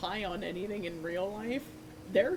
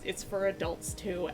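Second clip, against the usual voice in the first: ordinary delivery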